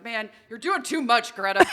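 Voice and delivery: mock the singer in a cartoon teen voice; slow cartoon quote. Quoting Butthead mocking a music video, slow and loud. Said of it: "he was just like".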